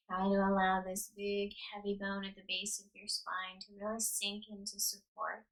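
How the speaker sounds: unhurried yoga nidra guidance with long pauses; guided meditation. Real, not acted. Yoga teacher settling listeners onto the ground, calm guided meditation. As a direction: guide them into rest, leaving space after each instruction.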